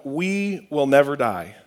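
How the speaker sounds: unhurried, each word laid down; slow and deliberate. Shown as a demonstration. Pastor giving the congregation a note to write, slow and measured. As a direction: let it sink in slowly. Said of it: "number one".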